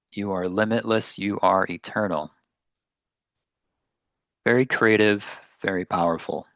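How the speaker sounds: unhurried meditation guidance with long pauses; guided meditation. Real, not acted. Meditation teacher settling listeners into their seats, guided meditation. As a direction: gently lead listeners inward, leaving space between phrases.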